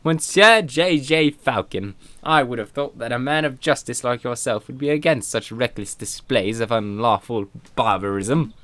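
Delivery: prim reproach. Acted. Indignant lecture to Falcon.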